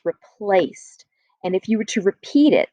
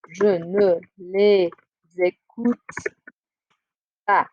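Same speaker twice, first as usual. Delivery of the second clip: slow model answer; slower than usual. Shown as a demonstration. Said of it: "Est-ce que tu écoutes tes C D?".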